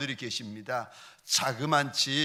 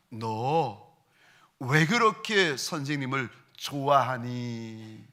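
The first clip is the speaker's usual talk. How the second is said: soothing question; 4 semitones lower, slower than usual. Retold or imitated. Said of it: "달래면서 물어보았습니다".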